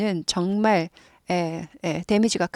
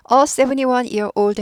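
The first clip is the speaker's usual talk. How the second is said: slow careful reading; 3 semitones higher, much slower than usual. Shown as a demonstration. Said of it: "해도 되지만".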